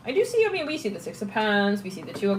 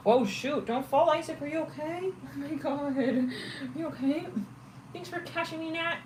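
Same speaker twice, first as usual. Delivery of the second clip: high, soft voice for the dog; high pet voice; 6 semitones higher, 6 dB quieter than usual. Real, not acted. Talking to her puppy Isaac, high and soft.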